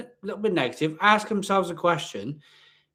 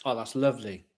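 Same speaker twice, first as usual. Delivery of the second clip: savouring; 5 semitones lower, 5 dB quieter than usual. Real, not acted. Savouring the aroma.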